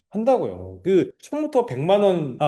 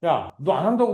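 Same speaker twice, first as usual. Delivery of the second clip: mock angry outburst; 3 semitones higher than usual. Shown as a demonstration. Agent openly telling off a reluctant client, mock angry. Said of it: "이렇게 화내는 거예요".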